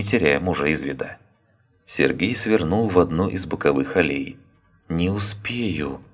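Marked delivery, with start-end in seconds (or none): 4.9-6.0 slow, soft panicked murmur; quiet dread, words drawn out; frightened. Acted. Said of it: "испугалась Татьяна".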